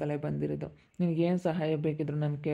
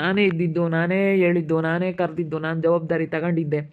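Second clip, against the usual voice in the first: emphatic insistence; 4 dB louder than usual. Acted. Insists he took responsibility.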